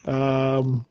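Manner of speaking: slow, measured newsreel announcer; old newsreel. Acted. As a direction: read the date like old newsreel. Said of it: "Why do you sound like an old newsreel?".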